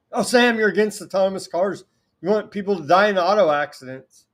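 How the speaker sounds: hammed-up whiny accuser; mocking critic voice. Host mocking his critics in a whiny accuser voice.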